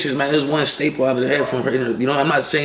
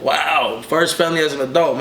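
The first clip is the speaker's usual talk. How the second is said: retold amazement; 5 semitones higher than usual. Retold reaction to felony charge.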